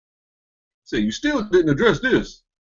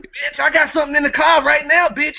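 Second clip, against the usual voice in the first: high, camp mocking voice of the clip; hammed-up lisping gay parody, pitched up; mocking gay accent; 10 semitones higher than usual. Podcaster mocking the clip guy, high camp voice. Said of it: "he said it in the purest gay accent".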